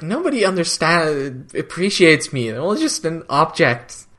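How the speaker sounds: a light hint of an Australian accent; a mopey teen line with a touch of Australian accent; Claudia Black's accent. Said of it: "that accent is actually dead on for Claudia Black's accent".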